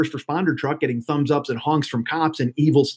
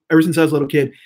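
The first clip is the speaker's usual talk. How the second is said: demon voice; 3 dB louder, faster than usual. Pretend. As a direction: growl it from the throat like a demon. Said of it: "scaring everybody with a demon voice".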